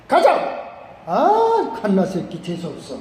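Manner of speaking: lightly mimicked North Korean grumbling; North Korean accent. General cursing his bad luck, mock North Korean accent. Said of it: "이북 사람 같으면 그렇게 얘기했어요".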